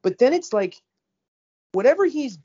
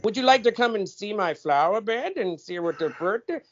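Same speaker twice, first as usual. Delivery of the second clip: mocking dubbed voice; 5 semitones higher than usual. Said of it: "and then it becomes".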